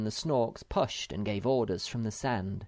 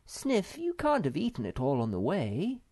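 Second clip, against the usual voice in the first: dismayed accusation; 6 semitones higher than usual. Acted. Mother accuses Sniff, in despair.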